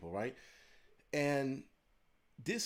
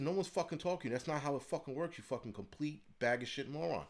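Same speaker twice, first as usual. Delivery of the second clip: higher-pitched irritated retort at normal volume; retold angry comeback; 4 semitones higher than usual. Shopper firing back at the mask-nagging lady, retold annoyance. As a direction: tell someone off, exasperated, as retold.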